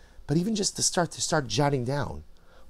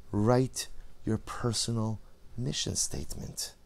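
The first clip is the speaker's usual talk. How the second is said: gentle urging; 2 semitones lower, 6 dB quieter, slower than usual. Acted. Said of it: "he whispers into our ear".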